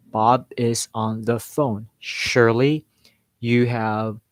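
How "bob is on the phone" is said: slow, careful, every word distinct; measured, over-clear sentence at a slow pace; clearly pronounced words. Shown as a demonstration. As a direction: say each word clearly, with only slight breaks. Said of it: "every single word very clearly".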